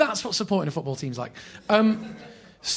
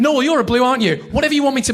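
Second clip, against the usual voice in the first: higher, louder eager pleading; fawning backtrack; 10 semitones higher, 10 dB louder, faster than usual. Retold or imitated. Fan grovelling to his hero, loud and eager. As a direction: say anything to please him.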